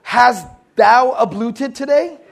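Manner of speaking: put-on slow, pompous old-English query through a laugh; hammed-up olde-worlde teacher; mock archaic formality. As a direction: parody a stuffy old translation.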